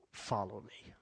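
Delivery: an invitation breathed softly; hushed whispered call. Acted. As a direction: whisper it, intimate. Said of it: "repeated invitation".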